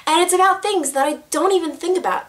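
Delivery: drawn-out deliberate take; too slow. Shown as a demonstration. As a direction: stretch each word out carefully. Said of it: "Oh my gosh, I said that so slow".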